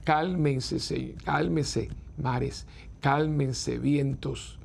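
very slow, drawn-out calming; slow, soothing rebuke to the winds; soothing command. Retold or imitated. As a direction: stretch each word to still the storm. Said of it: "qué le dijo".

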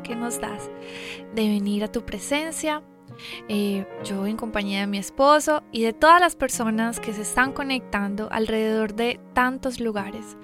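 soft, earnest prayer voice. Acted. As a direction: pray quietly and sincerely. Leads an opening prayer.

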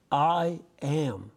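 "I am" with deliberate weight on each word; emphatic statement. Shown as a demonstration. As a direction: set "I am" apart, each word stressed. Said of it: "And it's an emphatic".

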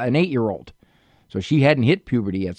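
ordinary talk, nothing marked

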